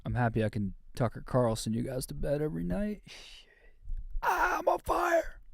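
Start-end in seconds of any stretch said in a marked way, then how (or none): 4.2-5.4 slow, very high far-off yell like a video game announcer; cartoon announcer screaming on fire; arcade announcer. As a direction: belt it like a nineties arcade game.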